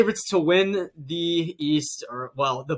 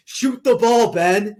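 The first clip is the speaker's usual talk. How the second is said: mock exasperated yell at a teammate; imitated yell; 6 semitones higher, 8 dB louder, slower than usual. Kyrie yelling at Ben Simmons to shoot, mock yell. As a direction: call it out high and loud, imitating a teammate. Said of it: "has to yell at him".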